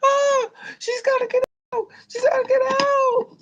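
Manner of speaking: very high, loud mock shriek; hammed-up high-pitched wailing alarm; imitated panicked screaming. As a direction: scream the alarm like frantic hospital staff. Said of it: "they started screaming".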